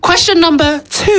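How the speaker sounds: quiz host announcement. Pretend. Host announces the next question.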